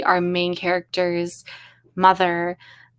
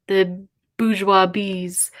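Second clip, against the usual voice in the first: slow, savoured "bourgeois bees"; mock posh delivery; posh drawl; much slower than usual. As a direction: roll the phrase like a snob. Savouring a chat phrase.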